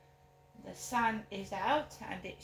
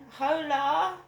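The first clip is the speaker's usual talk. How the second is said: calling out; 6 semitones higher, 9 dB louder than usual. Real, not acted. Calling out to the street.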